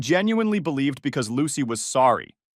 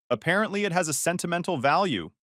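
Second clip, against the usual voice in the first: mildly whiny, higher imitation of the ex; 5 semitones higher than usual. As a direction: whine it lightly like a spoiled ex. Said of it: "mimicking Lucy's whiny voice".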